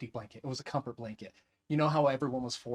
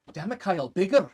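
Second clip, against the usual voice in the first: imitated demanding director; 4 semitones higher, 7 dB louder than usual. Voices director demanding bigger acting.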